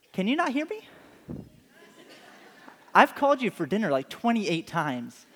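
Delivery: a wife who has called for dinner over and over; exasperated wife. Retold or imitated. Wife calling husband for dinner.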